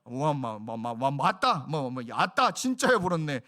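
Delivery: stammered build-up to a Jeolla exclamation; sputtering, then loud Jeolla dialect; Jeolla dialect imitation. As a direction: imitate gushing Jeolla amazement. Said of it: "전라도 사투리 하시는데".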